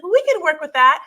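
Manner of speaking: high, loud mock-cheery assurance; smiling saleswoman. Imitating bridal consultant to customer, mock smiling cheer. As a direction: imitate an over-bright customer-service smile. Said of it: "She, like, smiles".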